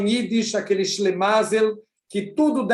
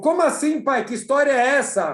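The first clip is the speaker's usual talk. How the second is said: shocked protest; 4 semitones higher than usual. Acted. Son shocked at father's words.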